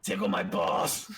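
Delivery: mock silly voice. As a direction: ham up a goofy strongman. Joke voice about steroid user.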